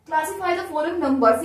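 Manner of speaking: very slow, each English word given its own weight; slow textbook reading. Shown as a demonstration. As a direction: read the question out slowly for the class. Reading out the exercise question.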